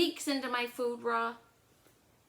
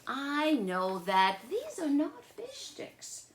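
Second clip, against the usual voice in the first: put-on slow, louder then higher insisting boy; Charlie's voice; 7 semitones higher, 4 dB louder, slower than usual. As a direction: insist like a big brother with a trick. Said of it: "said Charlie".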